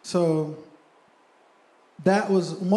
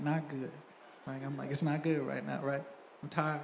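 much softer, worn-out reply; tired and low; 3 semitones lower, 11 dB quieter than usual. Retold or imitated. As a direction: let it sag, drained and quiet. Wife asks how he's doing.

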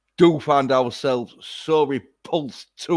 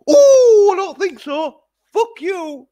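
much higher, louder squealing refusal; mock squeaky woman; 11 dB louder than usual. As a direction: squeal it like a tiny defiant woman. Acts woman rejecting attacker.

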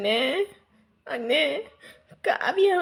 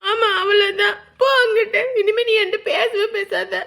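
higher, louder, tearful reproach; hurt and angry; 3 semitones higher, 4 dB louder than usual. Acted. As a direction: lash out from hurt. Sister angrily sulks at brother.

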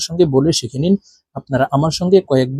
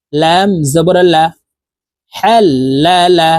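spelling drill. Shown as a demonstration. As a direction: spell it out clearly for students to repeat. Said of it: "আমি বানান করে বলে দিচ্ছি". (ধীরে ধীরে বানান করে বলা)

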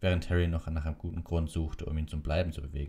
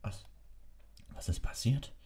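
groaning; 6 semitones higher, 3 dB quieter than usual. A narrator's reading. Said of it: "ächzte er".

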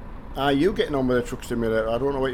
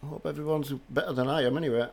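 hoarse from a head cold; croaky and full of cold; 5 dB quieter than usual. Real, not acted. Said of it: "so I've got a bit of a croaky voice".

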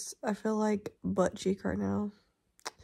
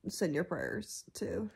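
whispering; much slower than usual. Real, not acted. Sick sign-off whisper.

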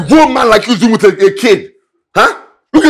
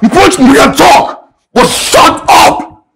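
drawn out very slowly, with a rising sneer on "want"; slow mocking taunt; 3 semitones higher, much slower than usual. Neighbour slowly mocks the man before telling him to shut up. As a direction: stretch every word to goad him.

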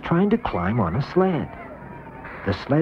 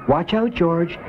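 called out, a touch higher; calling out; 6 semitones higher, slower than usual. A narrator's reading. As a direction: call a warning across the hill. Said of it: "called Mister Ramirez".

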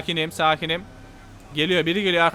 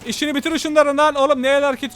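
urgent yell; 5 semitones higher, 4 dB louder than usual. Real, not acted. Urging crew during gunfight.

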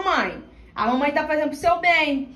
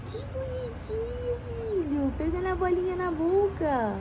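soft, slow tender coo; 6 semitones higher, 7 dB quieter, slower than usual. Real, not acted. Owner softly praising the puppy with its ball.

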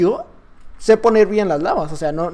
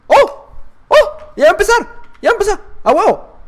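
high bursts of excitement; excited; 11 semitones higher, 4 dB louder than usual. Real, not acted. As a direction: exclaim high as the match is starting. Match is about to start. (emoción aguda, exclamando)

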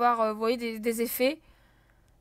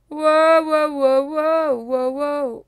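wowed; 5 dB louder, much slower than usual. Real, not acted. Surprised by swarm.

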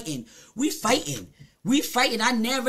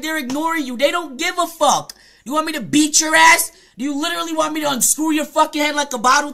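raised, irritated rant; real angry threat; 2 semitones higher than usual. Real, not acted. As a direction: fire threatening questions at an annoying viewer. Threatening an annoying viewer in comments.

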